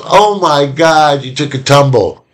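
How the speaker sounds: lightly acted parent making light of a fall; amused parent. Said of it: "If the parent laughs and goes".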